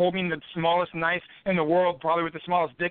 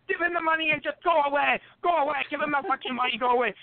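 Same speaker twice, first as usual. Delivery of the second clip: higher, pleading yell to go away; hookers yelling; 6 semitones higher than usual. Retold or imitated. Hookers yelling at him in the alley to go away. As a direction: urge him to leave, voice raised high. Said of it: "They're like".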